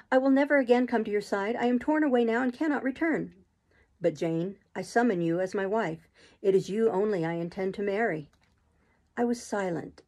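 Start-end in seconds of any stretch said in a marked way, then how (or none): 0.1-3.3 slightly raised voice, firm refusal; Jane, hurt and resolute. Acted. Jane refuses to return to her master's side, hurt and resolute. 4.0-8.3 Rochester, earnest suitor. Acted. Rochester summons Jane as his wife, lightly voiced and earnest.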